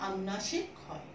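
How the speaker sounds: slow, with long pauses between phrases; slow dictation. Shown as a demonstration. Teacher dictating a rule for pupils to write, slow dictation.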